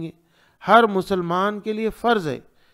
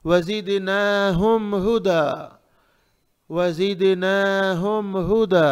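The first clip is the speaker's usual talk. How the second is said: slow, even chant with lengthened vowels; tajweed recitation; slower than usual. Shown as a demonstration. Teacher recites for students to practise, measured tajweed. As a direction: recite slowly for repetition, holding each long vowel. Models verse for repetition.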